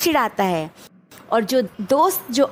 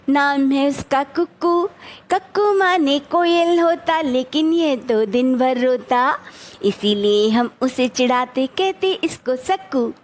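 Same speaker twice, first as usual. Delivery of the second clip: measured, rhythmic verse recitation; teacher's sing-song poem reading; poem recitation demo. Shown as a demonstration. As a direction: recite line by line for children to learn. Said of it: "तो इस तरीके से आप थोड़ी थोड़ी line करके".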